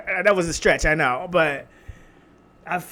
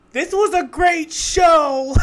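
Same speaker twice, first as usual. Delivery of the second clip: excited praise; 11 semitones higher, 7 dB louder, slower than usual. Real, not acted. Gushing summing up the show.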